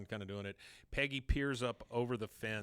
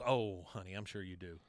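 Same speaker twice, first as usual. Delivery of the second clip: lower, softening patronizing reply; condescending; 4 semitones lower than usual. Acted. Peggy brushes off Nancy's wish to be taken seriously, condescending. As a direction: let it drop away, talking down to her. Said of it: "how condescending is that".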